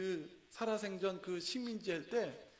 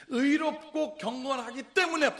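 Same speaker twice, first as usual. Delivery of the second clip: slow, loud word by word; slow emphatic reading; 7 semitones higher, 11 dB louder, slower than usual. Shown as a demonstration. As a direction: stress each word slowly. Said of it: "잘 보세요".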